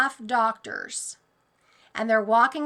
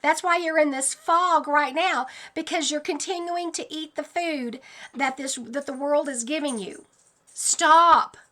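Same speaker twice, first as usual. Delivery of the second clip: pleading yell; 4 semitones higher than usual. Retold or imitated. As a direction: yell at the crowd to stop. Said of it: "I'm screaming at these people".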